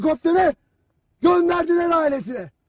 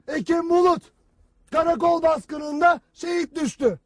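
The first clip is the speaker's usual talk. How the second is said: mock sad newsreader. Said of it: "hüzünlü bir sesle anlatır".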